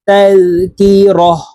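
slow তালকিরহ, ending on a vowelless h; waqf ha ending. Shown as a demonstration. Teacher showing the waqf reading, তালকিরহ closed on h. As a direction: stop on রহ with an audible h, no tun. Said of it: "আমরা ওয়াকফের ক্ষেত্রে হার উচ্চারণ করব".

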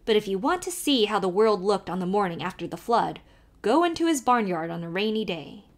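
put-on lively Irish accent, calling to the horse; old Irish driver calling out; Irish carter. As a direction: urge the nag on in a brogue. Kelly gossips about Priest Pond.

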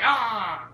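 imitated gaping "ah"; mocking open-mouthed cry. Gamer mocking a character's weird mouth, drawn-out mock cry. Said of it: "What's wrong with his mouth? It's like".

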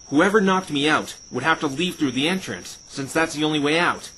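a sudden breakthrough; excited realization. Acted. Phoenix to Fluttershy working out the culprit, excited.

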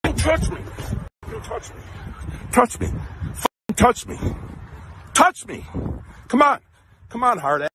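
angry yelling. Real, not acted. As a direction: yell it in her face. Man dares girl to hit.

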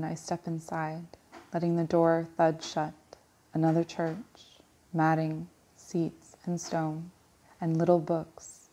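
even verse reading broken into short phrases; poem recitation. Acted. Reader reciting a poem about visiting a church, poem recitation. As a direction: set out each image with a small pause. Reads a Larkin poem aloud.

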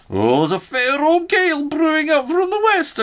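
loud high call across the room. Acted. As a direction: call it out as you leave. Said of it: "I called out to them".

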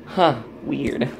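soft whisper in the bathroom; hushed, keep it down; whispering while filming in the bathroom. Real, not acted. In bathroom, speaking softly.

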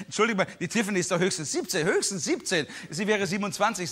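quick, indignant Eileen; Eileen quoted. Retold or imitated. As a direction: rattle it off defensively. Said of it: "sagt die Eileen". (Eileen, schnell und empört)

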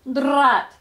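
loud frustrated vampire snarl; angry vampire. Acted. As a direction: bark it out in defeat. Vampire fails to pull.

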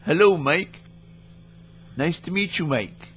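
a lightly put-on goofy caller; mildly goofy prank-caller voice; odd put-on voice. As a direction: toy with the agent in a silly voice. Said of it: "No, my name is Sherman".

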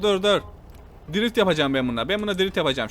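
ordinary talk, nothing marked

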